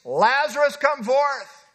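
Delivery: a booming call of command; Jesus commanding the dead man, booming; loud cry. Acted. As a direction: call him out of the tomb loudly. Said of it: "he cried with a loud voice".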